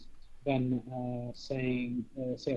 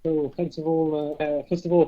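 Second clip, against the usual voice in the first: speaking louder; 3 semitones higher, 8 dB louder than usual. Real, not acted. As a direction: push the voice out over a weak line. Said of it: "but go a bit louder again".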